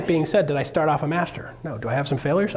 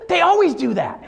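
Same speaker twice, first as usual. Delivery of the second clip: amused wife; 14 semitones higher, 4 dB louder than usual. Retold or imitated. Wife's reply, retold.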